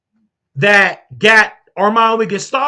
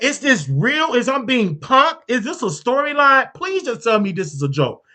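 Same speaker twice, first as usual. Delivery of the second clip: pleading disbelief; 4 semitones higher than usual. Retold or imitated. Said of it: "I said".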